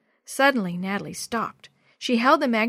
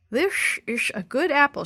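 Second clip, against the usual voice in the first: higher voice, talking round a big bite; mouth full; 5 semitones higher than usual. A narrator's reading. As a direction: slur it through a mouthful of apple. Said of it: "trying to talk around the big bite".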